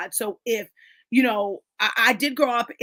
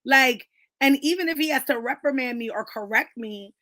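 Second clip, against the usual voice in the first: indignant retort; 4 semitones higher than usual. Retold or imitated. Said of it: "I'm like".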